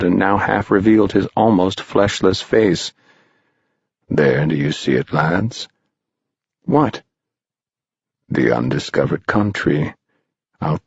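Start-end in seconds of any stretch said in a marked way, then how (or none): 4.1-5.7 lower, hushed stranger's voice; eerie stranger. Acted. Stranger showing the boys the ravine, low and hushed. 6.6-7.0 put-on high, short boyish question; puzzled boy. Boy puzzled by the stranger, high.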